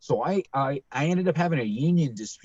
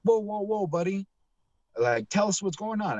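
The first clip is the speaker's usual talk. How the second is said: higher-pitched mock placating voice; calming him down; 8 semitones higher than usual. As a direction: imitate someone heading off a rant. Acting out managers calming him down.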